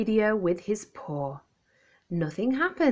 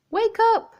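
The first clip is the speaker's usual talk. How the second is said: much higher, louder shouted wake-up; clock shouting; 6 dB louder than usual. Acted. The alarm clock shouts at the scared dog, loud high call. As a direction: blare it like an alarm. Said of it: "it shouted".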